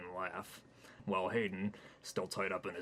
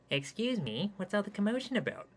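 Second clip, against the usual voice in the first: prim polite man; 13 semitones higher, 5 dB louder than usual. Acted. Hayden asks Triceratops politely.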